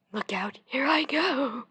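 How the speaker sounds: high, loud, drawn-out last cry; calling out. A narrator's reading. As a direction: stretch it out like a final warning. Melting witch's last cry.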